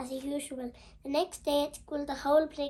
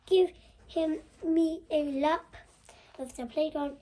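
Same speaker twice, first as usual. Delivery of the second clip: a louder stern teacher command; mild mock teacher shout; 6 dB louder than usual. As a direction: bark the punishment at the pupil. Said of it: "Mister Cube shouted".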